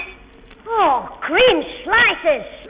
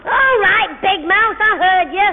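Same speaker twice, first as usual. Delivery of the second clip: calling out; 2 semitones higher than usual. Acted. Boy shouts back to his sister calling him in.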